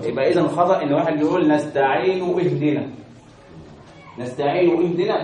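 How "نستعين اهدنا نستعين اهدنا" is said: نستعين run straight into اهدنا without its hamza; wrong joined reading. Shown as a demonstration. Teacher showing students the mistake, wrong joined reading. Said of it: "دي غلط".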